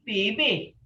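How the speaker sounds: B B said with a clear voiced B; crisp voiced B in B B; B sound demo. Shown as a demonstration. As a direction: model the sound B B for the student. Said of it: "say it with the B sound".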